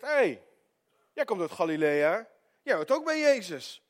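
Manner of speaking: high, loud accusation; single him out across the fire; accusing call. Retold or imitated. Man accuses Peter by the fire.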